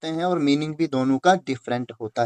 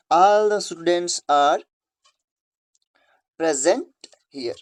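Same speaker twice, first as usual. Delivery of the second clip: slow, word by word; careful classroom reading pace; slow dictation read; much slower than usual. Shown as a demonstration. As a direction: read the sentence out slowly for the class. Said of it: "इस वाले present का मतलब निकलेगा here".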